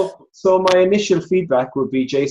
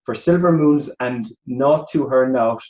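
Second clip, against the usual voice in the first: natural Irish accent reading verse, easing lower; 3 semitones lower than usual. Shown as a demonstration. Irish judge showing the contestants how it's done, Irish accent. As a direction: read the poem in an unforced Irish accent. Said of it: "this is my Irish accent".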